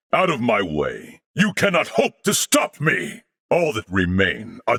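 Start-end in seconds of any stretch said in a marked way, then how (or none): 1.3-3.2 defiant shout. Acted. Defiant taunt in battle.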